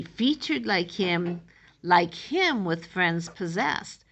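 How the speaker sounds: "Featured like him" read out slowly as verse; poem reading. Shown as a demonstration. Teacher reading "Featured like him" as the line of the poem, slow.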